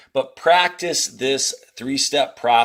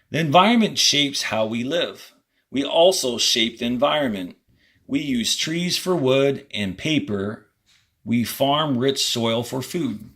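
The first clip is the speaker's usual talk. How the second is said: reading aloud to class. Acted. Teacher reading the passage to students, clear and measured. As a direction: read each sentence out for students.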